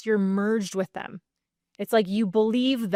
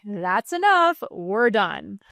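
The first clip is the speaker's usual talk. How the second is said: firm parent; slower than usual. Shown as a demonstration. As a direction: end the tantrum firmly. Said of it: "you're the parent".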